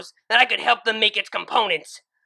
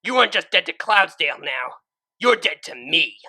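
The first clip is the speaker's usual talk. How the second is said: high, loud furious rebuke; angry; 9 semitones higher, 12 dB louder than usual. Acted. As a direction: tear into her with fury. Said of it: "remembering her anger".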